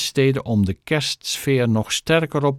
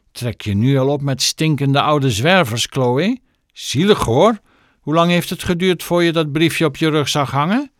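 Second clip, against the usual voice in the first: high-pitched bully's jeer; taunting; 5 semitones higher, 3 dB louder than usual. A narrator's reading. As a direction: pile scorn on her. Bully taunting girl and old man. (treiterend en hoog)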